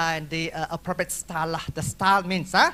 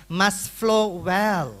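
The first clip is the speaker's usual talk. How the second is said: slow emphasis; much slower than usual. Shown as a demonstration. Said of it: "teacher stressing key phrase".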